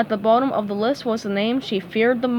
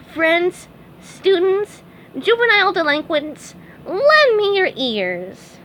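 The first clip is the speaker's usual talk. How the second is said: high, slowing mock-Shakespearean speech; grand orator; 8 semitones higher, 4 dB louder, slower than usual. A narrator's reading. SpongeBob orates to the class, grand and high. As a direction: ham up the famous oration. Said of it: "a dramatic pause".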